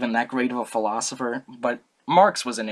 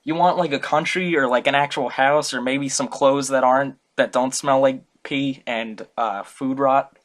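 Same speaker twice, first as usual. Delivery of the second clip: fangirling; 4 dB louder than usual. Retold or imitated. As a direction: squeal like a starstruck fan. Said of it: "he was fangirling".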